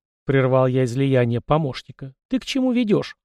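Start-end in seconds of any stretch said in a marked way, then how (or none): 2.3-3.2 a hint of an impatient young master; lightly voiced hero cutting in; lightly voiced young prince. A narrator's reading. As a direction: ask it a little higher, curtly.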